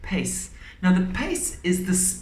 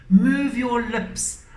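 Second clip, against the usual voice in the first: higher and slow, every sound shaped; exaggerated diction; 7 semitones higher, 5 dB louder, much slower than usual. Shown as a demonstration. Teacher modelling clear diction to pupils. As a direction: Move your lips spelled out slow and big. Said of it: "diction is how you actually say your words".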